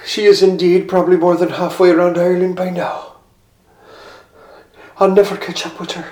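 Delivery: weary lament. Acted. Philip's inner lament.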